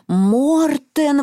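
high startled echo; exclaiming. A narrator's reading. Marta joining the others' alarm, high exclamation. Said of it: "воскликнула Марта".

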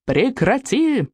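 high, drawn-out cry of protest; mild yell. A narrator's reading. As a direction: cry out without full volume. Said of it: "завопил Икинг".

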